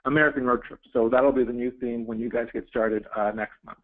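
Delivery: muffled voice, mic badly placed. Real, not acted. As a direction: sound muffled and distant from the mic. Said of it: "it sounds like you're muffled".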